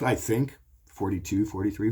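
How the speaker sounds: "I think" lifted high, rising like a question; unsure question. Real, not acted. Telling viewers his age, questioning and unsure.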